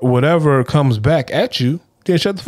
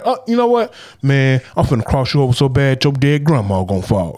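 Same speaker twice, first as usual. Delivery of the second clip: mock trash talk. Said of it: "if that was some trash".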